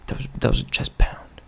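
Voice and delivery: whispered aside. Pretend. Hushed aside after mock salute.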